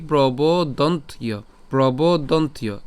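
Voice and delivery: প্রবোদন্তীয় slow and joined, long "bo"; said as one word. Shown as a demonstration. Teacher models প্রবোদন্তীয় joined up, slow and measured. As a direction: say প্রবোদন্তীয় whole, stretching the middle. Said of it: "পুরোটা যদি একসাথে যদি বলি".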